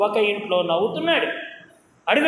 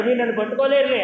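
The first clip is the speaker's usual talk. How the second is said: quick, teasing taunt; a light mock taunt, rattled off fast; faster than usual. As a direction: tease them like a child who can't be caught. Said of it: "అని వెక్కిరిస్తున్నాడు".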